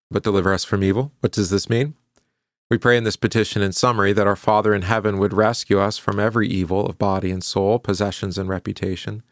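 brisk, even recitation of the catechism; liturgical recitation. Acted. Pastor leading the congregation in confession, recitation.

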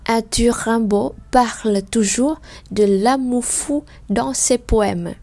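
slow, steady French sentence; slow reading. Shown as a demonstration. Teacher rereading the sentence slowly for learners. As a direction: read it slowly in one line. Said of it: "Khi mà các bạn đọc vào một câu".

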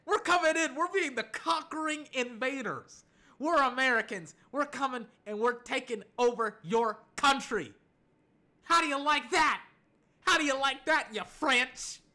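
loud, high, hammed-up triumph; mock conqueror boast. American fan taunts the French after the win, mock triumphant. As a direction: taunt them like a playful invader.

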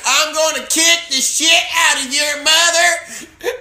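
high, shouted redneck threat; redneck gangster. Acted. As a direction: holler it like a hammed-up redneck gangster. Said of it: "a redneck gangster, I could do that".

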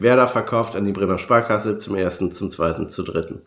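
Auktionator, zum ersten, zum zweiten, zum dritten; auctioneer. Pretend. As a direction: fallend und leiser werdend ausrufen. Auction call going once twice. (wie ein Auktionator)

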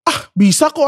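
high-pitched, insistent reassurance; retold reassurance. Child trying to calm grieving mama, high insistent reassurance. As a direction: quote an eager attempt to soothe. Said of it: "berusaha buat nenangin".

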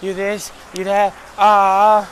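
slow, mocking string of insults; mock name-calling, stretched out; mock trash talk. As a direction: imitate their taunts, drawing out the last sound. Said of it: "they started talking shit".

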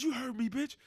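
high, loud mock yell; retold angry yell. Friend yelling at his girlfriend, high loud yell. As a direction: bark the threat. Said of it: "He said".

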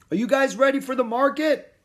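loud, high call across the house. Acted. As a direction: call from the front door. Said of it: "Dad called from the front door".

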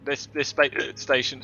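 words broken by a hiccup. Real, not acted. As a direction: hiccup cuts the word off. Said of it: "my hiccups have been going".

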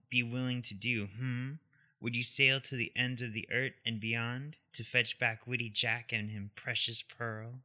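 loud, building mock-mystic witch voice; pirate witch prophecy read; dramatic witch quote. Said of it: "try with the accent".

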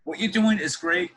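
lightly attempted Southern accent, lifted in pitch; half-hearted Southern accent. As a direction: imitate a professor's encouragement with a hint of Southern accent. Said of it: "I can't really do a Southern accent that well".

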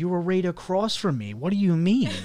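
high, loud incredulous retort; reenacted outburst of disbelief; retold exasperated shout. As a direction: act out arguing back, voice jumping up. Retold argument, answering her denial.

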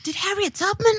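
high mocking voice; a lightly voiced mock of a rapper; mocking quote. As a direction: mimic her indignant question. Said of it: "when she was like".

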